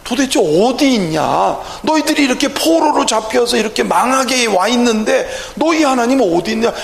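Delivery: acted enemy jeering at captives; mildly scornful, pressing challenge; mocking taunt. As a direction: needle them with a rhetorical question. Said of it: "이렇게 조롱을 당하고 있잖아".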